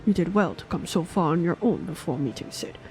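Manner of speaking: put-on weary old mentor recalling war; old man voice. Voices old knight master Omp.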